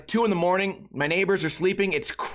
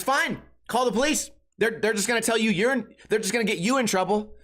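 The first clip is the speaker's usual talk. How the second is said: mock defiant date; 5 semitones higher than usual. Imitating date's defiant taunt.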